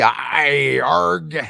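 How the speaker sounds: loud mock sailor growl, drawn out; drunken sailor. Telling Christy what she missed, mock drunken sailor voice. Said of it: "You just missed the drunken sailor".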